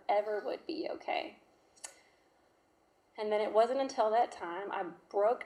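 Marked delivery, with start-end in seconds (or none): 0.1-1.4 whisper. Real, not acted. Despairing under breath.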